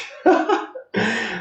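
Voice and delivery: a short high burst of laughter; bright amused laugh after the punchline. Real, not acted. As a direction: laugh at your own joke about God. Laughs at own joke.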